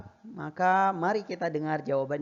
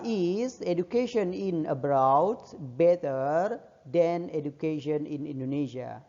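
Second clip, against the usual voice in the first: slow model reading; slower than usual. Shown as a demonstration. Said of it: "Jawaban nomor enam adalah".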